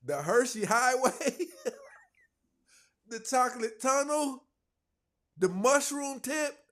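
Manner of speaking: high, loud squeal through laughter; laughing disbelief. Real, not acted. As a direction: draw each name out, cracking up. Host cackles over crude nicknames.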